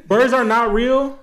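slow, deliberate declaration, each word weighted; mock proclamation. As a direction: announce it like a movement slogan. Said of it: "I'ma tell y'all why right now".

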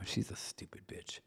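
hushed unvoiced whisper; whispered aside. Real, not acted. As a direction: mutter it under your breath. Muttered aside.

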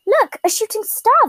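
high, bright exclamation; excited exclaim. A narrator's reading. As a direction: call out the shooting star. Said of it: "the snake exclaimed".

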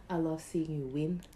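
soft tender whisper. Real, not acted. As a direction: breathe it softly to your friend. Tender closing compliment.

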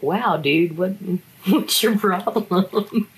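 incredulous, laughing through it; laughing disbelief. Real, not acted. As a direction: laugh at the absurdity. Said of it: "I was like".

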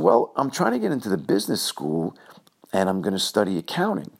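a mild put-on innocent tone. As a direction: answer like a wide-eyed kid who means it. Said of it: "in a very innocent voice".

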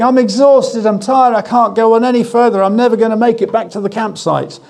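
put-on boy complaining to his father on the hike, whining; grumbling child. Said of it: "I was doing nothing but grumbling".

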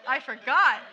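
laughing it out loud. Real, not acted. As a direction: laugh through the words. Laughs at forgetting the slide.

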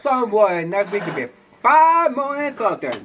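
swollen tongue slur; words round a swollen tongue; thick tongue lisp. Real, not acted. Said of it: "His tongue is swollen".

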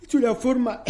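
words stretched by a yawn. Real, not acted. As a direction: say it mid-yawn. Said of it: "perdón que estoy bostezando".

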